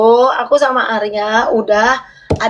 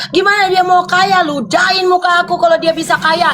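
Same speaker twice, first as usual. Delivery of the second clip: shouting it out in the heat of a fight; 3 semitones higher than usual. Real, not acted. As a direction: yell this at your partner, fed up. Heated argument with partner.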